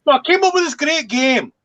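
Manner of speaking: put-on high, lively Scottish accent. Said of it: "he does it in the Scottish accent".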